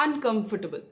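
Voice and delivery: un-COM-fortable; stress on COM. Shown as a demonstration. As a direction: hit the root COM in uncomfortable. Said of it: "हमेशा stress कम पे रहेगा".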